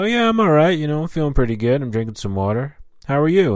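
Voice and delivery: chatty small talk. Acted. Acting out polite small talk.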